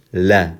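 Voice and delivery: La as a separate syllable; isolated, brief La; second lam. Shown as a demonstration. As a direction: release the l into a short La. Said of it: "there's the second lam".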